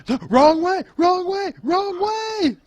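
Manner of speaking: high, loud mock-panicked cries; panicked yelling. Game master voicing the player's panicked brother, frantic yelling. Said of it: "obvious look of panic on your brother's face".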